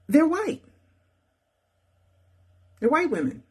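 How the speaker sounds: "they're white" pitched high and hit hard; emphatic point. Real, not acted. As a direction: land the word "white" with a pointed rise. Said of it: "stressing race point".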